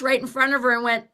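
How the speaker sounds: usual speaking voice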